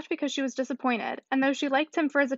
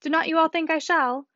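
good-humoured appeal, pitched higher; lightly raised, trusting question; 4 semitones higher than usual. A narrator's reading. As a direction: ask the company, sure they will agree. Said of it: "with the most good-humoured dependence on everybody's assent".

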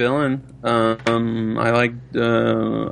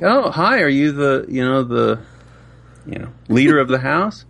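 telemarketer; 5 semitones higher than usual. Retold or imitated. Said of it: "Well, if they call, I'm just like".

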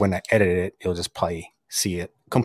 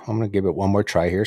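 talking while crunching food; crunchy bite in the mouth; mouth full, crunching; faster than usual. Real, not acted. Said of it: "so don't mind the crunching".

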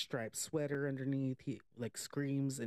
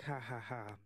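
Freddy; 4 dB quieter than usual. Retold or imitated. Imitates villain Freddy laughing.

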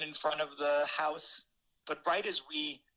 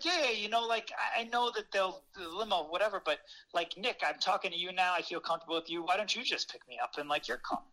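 imitating Jerry Stiller; 4 semitones higher than usual. Imitating Stiller's pleading offer.

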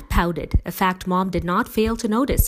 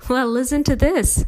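teasing exclamation, higher and louder; amused; 9 semitones higher, 6 dB louder than usual. A narrator's reading. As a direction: tease with understated amusement. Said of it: "Mom laughed".

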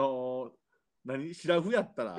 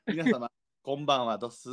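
Kyoto dialect. Acted. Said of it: "性別なんてよろしおすでいこうかな".

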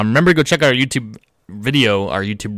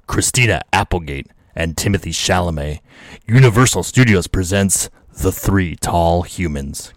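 trailer voice; 4 semitones lower than usual. Shown as a demonstration. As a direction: read it like a dramatic trailer. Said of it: "In your trailer voice".

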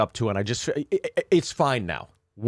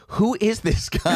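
high-pitched, amused imitation of bewilderment; mock bewildered woman; 10 semitones higher than usual. Woman asks about the man all over her, mock bewildered. Woman reacting to pushy suitor, retold.

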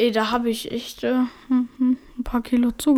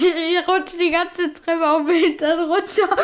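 laughing; 5 semitones higher than usual. Real, not acted. Laughing while telling the fall.

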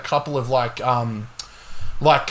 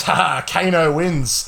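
Australian Kano. Retold or imitated. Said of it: "And he's Australian".

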